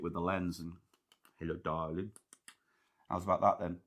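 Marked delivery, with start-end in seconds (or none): 1.4-3.8 low, soft screen-idol croon; breathy vintage purr. Acted. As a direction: purr it to the lens like an old film star. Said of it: "Is that you doing some screen acting?".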